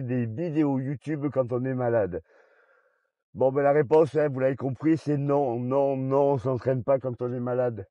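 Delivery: muffled behind a face mask; talking through a mask. Real, not acted. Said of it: "on va enlever le masque".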